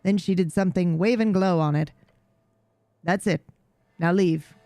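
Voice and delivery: a lightly voiced haughty cat, bored and proud; jaded regal cat. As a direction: talk down to the human like a weary noble cat. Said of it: "jaded, regal tone".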